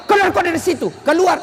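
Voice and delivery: barking a student out the door; hammed-up angry lecturer; lightly mocked angry shout; mock angry ejection. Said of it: "Akhirnya apa".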